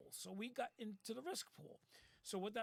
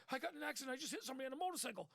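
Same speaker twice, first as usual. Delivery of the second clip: higher, fast, mildly panicky retelling; panicked driver; 5 semitones higher, much faster than usual. Retold or imitated. Boss imitating his panicked driver on the phone, rushed and higher. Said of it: "he's like all upset".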